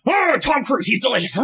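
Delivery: high-pitched mock celebrity swoon; gushing. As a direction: squeal it like a smitten talk-show host. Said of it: "I realized I just kept going".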